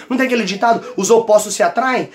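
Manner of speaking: ordinary talk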